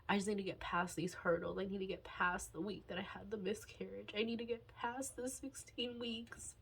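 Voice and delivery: holding back tears; getting emotional. Real, not acted. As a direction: voice going soft and teary. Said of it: "I didn't think I was gonna get emotional".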